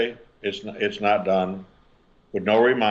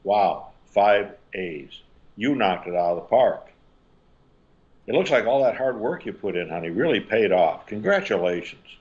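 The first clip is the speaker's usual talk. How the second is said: encouraging. Shown as a demonstration. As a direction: give credit to the effort, not the grade. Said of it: "that same scenario using encouragement".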